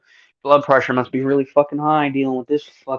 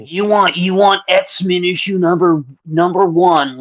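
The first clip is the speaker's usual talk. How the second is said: eager salesman, pitched up and loud; pushy clerk voice; 5 semitones higher, 4 dB louder than usual. Acted. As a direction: sell it like a pushy shop clerk. Acting comic store clerk.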